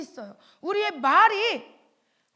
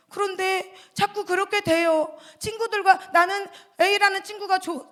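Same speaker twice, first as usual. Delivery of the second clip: put-on child's prayer; 4 dB louder than usual. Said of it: "저녁에 기도할 때".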